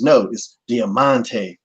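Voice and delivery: slow, deliberate "Diamante" after a firm "No"; Conan correcting again. Retold or imitated. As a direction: spell out "Diamante" slowly, patiently. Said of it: "it sounded exactly the same every time".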